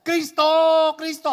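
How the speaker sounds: high, loud desperate calls; frantic high invocation; falling cries. Acted. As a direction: shout for Christ as you drop. Christian calls out while falling.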